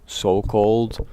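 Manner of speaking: slow meditation talk with very long pauses; speaking slowly. Real, not acted. Guide tells dear friends about guilt, slow and meditative. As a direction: let each phrase hang in silence before the next. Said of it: "we are speaking rather slowly".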